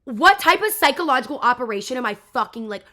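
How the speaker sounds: loud, high, exasperated disbelief; real incredulous outburst. Real, not acted. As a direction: explode in outraged bafflement. Outburst at his following the girl.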